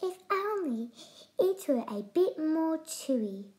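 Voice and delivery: high, wistful sighing emu; understated sigh. Acted. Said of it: "she sighed".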